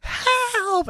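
high, drawn-out mock "help"; retold cry for help. Host mimics victim on her belly, drawn-out mock cry. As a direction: feeble cartoonish call, held long.

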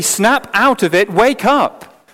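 sharp wake-up call. Acted. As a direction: slap them awake with the words. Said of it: "rouse yourself from your stupor".

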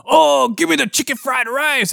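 high-pitched silly mimic voice; badly faked foreigner, pushed way up high; dad's bad impression. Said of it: "he does the exact same voice".

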